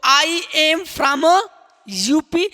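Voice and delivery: I am from stretched very slowly before UP; very slow model phrase. Shown as a demonstration. Teacher modelling where you come from, very slow. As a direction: drag it out word by word. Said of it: "तो".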